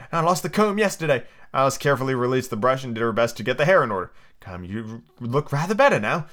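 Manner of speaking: reading a storybook aloud; story narration. Acted. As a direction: read the chapter like a bedtime story. Reads Through the Looking-Glass aloud.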